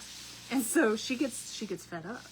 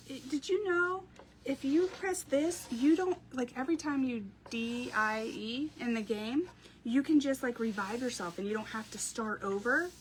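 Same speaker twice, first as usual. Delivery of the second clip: put-on excited little boy; 3 semitones higher than usual. Mom voicing her son.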